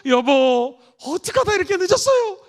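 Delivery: practising in the mirror, smiling sweetly at the husband. Shown as a demonstration. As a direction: smile as you say it. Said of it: "먼저 웃으시면서".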